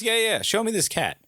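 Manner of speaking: high-pitched, mocking drunk demand; mouthy demand. Drunk neighbor demanding to see the cat, mouthy. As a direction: imitate a pushy drunk demanding proof. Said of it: "he starts running his mouth".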